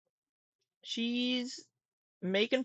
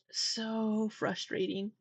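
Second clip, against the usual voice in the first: "So frustrating" stretched out slow and softer; slow, softer, fed-up repeat; exasperated drawl; 4 dB quieter, much slower than usual. Real, not acted. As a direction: drag out "So frustrating" with a weary sigh in the voice.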